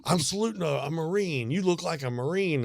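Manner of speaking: a hint of a cheerful elderly lady; old lady quoted. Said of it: "And she goes".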